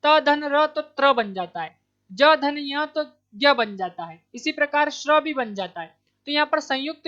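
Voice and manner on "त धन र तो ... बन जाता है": त धन र spoken slowly and a bit louder, each part set apart; slow breakdown. Shown as a demonstration. Teacher builds joined consonants for students, slow and clear. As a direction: build त्र from its parts at a slow pace. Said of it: "श का उच्चारण करते हैं".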